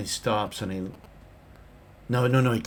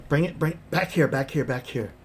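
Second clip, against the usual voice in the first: put-on old prospector; 5 semitones higher, 3 dB louder than usual. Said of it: "like an old prospector".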